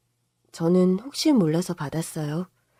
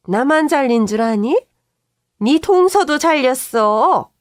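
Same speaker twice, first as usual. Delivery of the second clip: loud, high, outraged shouting; furious yell; 4 semitones higher, 6 dB louder than usual. Retold or imitated. Mother-in-law yelling about being fired, furious shouting. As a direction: yell the accusation.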